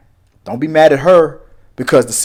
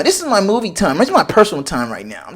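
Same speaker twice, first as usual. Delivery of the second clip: childish mock; 4 semitones higher than usual. You sound like my son.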